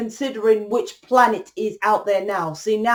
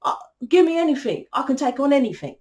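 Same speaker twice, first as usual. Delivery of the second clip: higher-pitched, lightly acted bravado; cocky agreeing masculine; 4 semitones higher than usual. Masculine agreeing to a hard contract, lightly cocky. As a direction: accept the challenge with easy bravado. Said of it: "And the masculine agrees".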